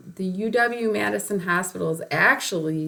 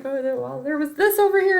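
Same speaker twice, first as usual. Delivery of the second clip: frantic explaining; 8 semitones higher, faster than usual. Retold or imitated. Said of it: "I'm like".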